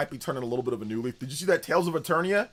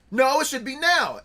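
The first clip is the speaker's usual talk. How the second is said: higher, louder, slow bratty demand; whiny kid tantrum; 11 semitones higher, 8 dB louder than usual. Retold or imitated. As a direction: wail it like a furious little kid. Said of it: "everybody's like".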